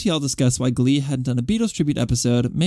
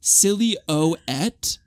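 put-on Cockney accent; 5 semitones higher than usual. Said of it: "Dick Van Dyke pretending to be a Londoner".

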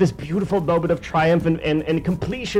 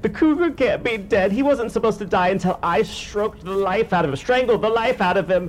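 villain Giggler; 2 semitones higher than usual. Acted. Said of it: "tears at his hair and goes".

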